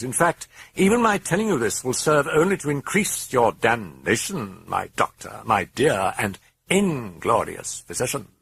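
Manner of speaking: triumphant demonic boast; gloating demon. A narrator's reading. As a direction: revel in your own freedom.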